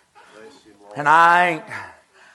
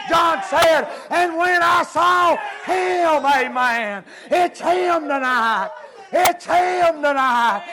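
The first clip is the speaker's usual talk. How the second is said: fervent revival preacher, rising and shouting; preaching at full force; 4 semitones higher than usual. Acted. Preacher urging the congregation to worship, preaching at full force. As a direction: preach it hard, ringing to the back pew.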